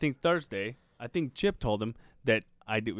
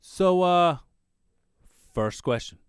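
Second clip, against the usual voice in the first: imitating his way of talking; 5 semitones higher, 4 dB louder than usual. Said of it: "and this is how he talks".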